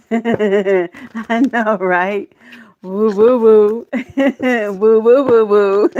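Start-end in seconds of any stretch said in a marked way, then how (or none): 2.8-5.9 loud happy whoops; cheering woo. Real, not acted. Reader celebrating the cards with loud whoops. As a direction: whoop it out with joy.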